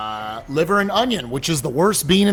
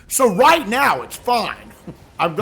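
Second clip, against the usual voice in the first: talking through a mouthful; words round a chewed bean; mouth full; slower than usual. Real, not acted. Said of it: "I'm talking with my mouth full".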